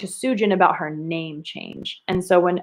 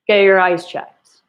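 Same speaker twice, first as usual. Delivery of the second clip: slow, emphatic exclamation; don't just read it, feel it; teacher demoing an annoyed yell; read with emotion; 4 dB louder than usual. Shown as a demonstration. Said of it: "I can't just read it".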